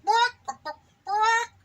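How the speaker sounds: high, loud hen cackle; cackling hens. Acted. Gossipy hens laughing at the piglet's hiccups. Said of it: "hens laughed".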